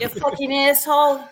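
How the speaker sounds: loud, high New York insult; mock New York street abuse; New York accent. Shown as a demonstration. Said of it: "Let's hear your New York accent".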